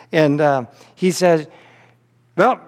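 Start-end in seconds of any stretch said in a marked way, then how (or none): 2.4-2.6 lightly imitated Southern accent; Uncle Howard. Uncle inviting guests out to Dairy Palace, mock Southern accent. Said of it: "this is the only accent I'll ever try to do".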